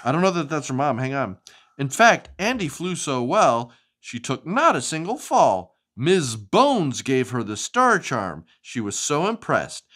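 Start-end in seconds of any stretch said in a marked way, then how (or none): 1.8-9.8 lively, sing-song storybook reading; animated picture-book narration; reading to children. Acted. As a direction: read it like bedtime story time for a child.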